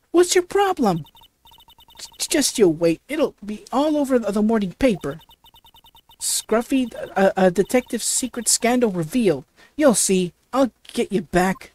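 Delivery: indignant southern reporter, first line flung up high; huffy southern threat to get even; a southern-accented reporter vowing revenge. Acted. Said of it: "That southern accent".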